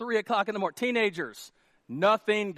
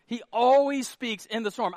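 "always" punched louder and higher; emphatic insistence; 4 semitones higher, 6 dB louder than usual. Real, not acted. Pastor insisting to congregation on third repeat, emphatic "always". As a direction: drive "always" home.

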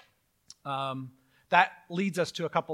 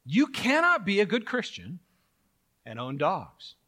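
mock dogmatic believer; 4 dB louder, slower than usual. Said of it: "they make an assertion".

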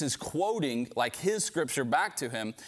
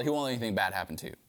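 quick plain restatement; 3 semitones lower, much faster than usual. Real, not acted. Preacher restating the lie to his congregation, fast and plain. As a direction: lower and fast, just explaining. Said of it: "If God really is your father".

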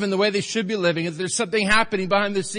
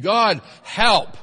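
louder prayer; 3 semitones higher, 7 dB louder than usual. Shown as a demonstration. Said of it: "Say it again".

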